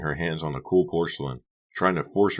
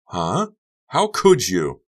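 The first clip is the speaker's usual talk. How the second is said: Honey bewildered; 5 semitones higher, 8 dB louder, much slower than usual. Acted.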